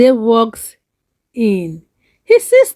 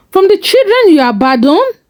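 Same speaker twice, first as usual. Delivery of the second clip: tight bitter accusation; 7 semitones higher, 3 dB louder, faster than usual. Acted. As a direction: voice tightened, higher and fast. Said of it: "His voice tightened".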